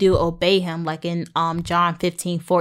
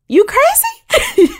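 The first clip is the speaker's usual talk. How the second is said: very high, loud, drawn-out squeal; incredulous mock outburst; 9 dB louder, much slower than usual. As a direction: squeal it in playful disbelief. Mock outburst at God, then laughs.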